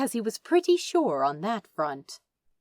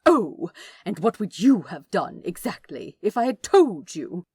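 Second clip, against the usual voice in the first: scoffing; 9 dB louder than usual. Acted. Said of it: "Aziraphale scoffed".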